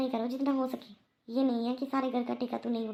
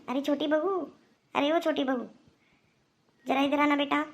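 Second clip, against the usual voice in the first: raised voice calling across the house; 3 semitones higher, 4 dB louder than usual. Acted. Mother-in-law calling the younger daughter-in-law over, raised call. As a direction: call her over from the next room, a bit louder.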